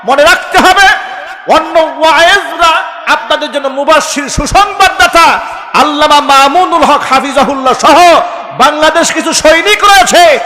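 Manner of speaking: loud, high fiery sermon; preaching at full force. Real, not acted. Preacher defending loud scholars to the crowd, fiery and loud.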